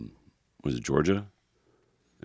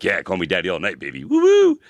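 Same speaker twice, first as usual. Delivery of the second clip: party hype. Pretend. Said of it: "maybe I'd be like".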